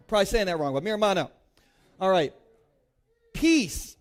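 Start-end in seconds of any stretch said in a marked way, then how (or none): 0.7-1.3 mirmano, three clear syllables stressed on MAH. Shown as a demonstration. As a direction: say mirmano as meh-ruh-MAH-no. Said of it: "Everybody say mirmano".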